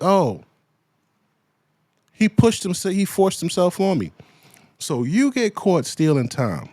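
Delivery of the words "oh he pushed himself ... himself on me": higher, mocking imitation of her excuse; a hint of a whiny accuser. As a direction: lightly send up her sob story. Mocking her claim to news.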